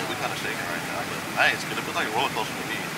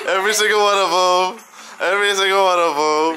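loud boast; 8 semitones higher, 8 dB louder than usual. Real, not acted. Boasting loudly.

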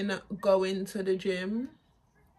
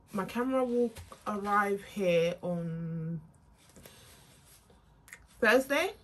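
talking with whitening strips on; with whitening tray. Real, not acted. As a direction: strips on teeth while talking. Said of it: "Don't mind my teeth".

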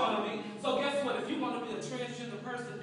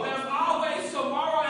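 raised, drawn-out assurance; building refrain; 3 semitones higher, 5 dB louder than usual. Real, not acted. Speaker pressing hope on the listeners, building refrain. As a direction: stretch it out and lift it to the crowd. Refrain repeated with more force.

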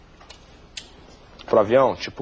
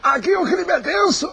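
panicked shout; 12 semitones higher than usual. Acted. Correspondent under fire.

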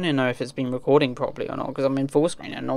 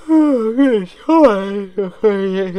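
surprised; 6 semitones higher, 8 dB louder, much slower than usual. Real, not acted. Suddenly meets a game character.

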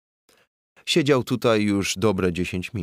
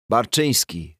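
roaring; 3 semitones higher than usual. Acted. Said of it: "ryknął znów bandura".

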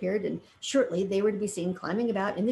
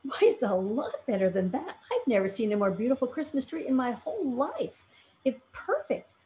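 delighted; 4 semitones higher than usual. Acted. Dorothy's rising delight.

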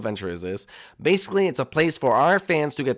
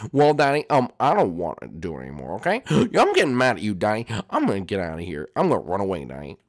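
Jeffy voice; 4 semitones lower than usual. Acted. Jeffy threatening to run.

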